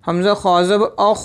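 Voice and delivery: "अख" with a full-mouthed, heavy kh; full, heavy letter. Shown as a demonstration. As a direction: fill out the kh of "अख". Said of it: "ये पुर पर आ जाएगा".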